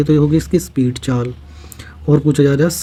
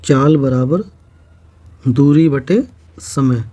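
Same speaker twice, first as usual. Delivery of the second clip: slow dictation; slower than usual. Shown as a demonstration. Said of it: "formula है".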